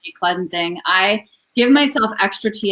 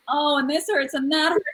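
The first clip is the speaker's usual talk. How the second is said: mock whine, higher and softer; whiny complaining; 5 semitones higher, 5 dB quieter than usual. Patient recalling her old complaints about pain, whining. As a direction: complain in a small, raised whiny voice. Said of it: "I was in that whiny group too".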